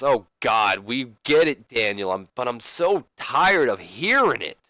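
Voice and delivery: mildly hammed-up exasperation, drawn out at the end; lightly acted wrestler's weary complaint; exasperated interruption. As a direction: cut in, fed up with hearing it. Ziggler interrupts, sick of hearing it.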